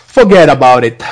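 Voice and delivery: rough attempt at Brooklyn speech; attempted Brooklyn accent. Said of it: "can't do that Brooklyn accent".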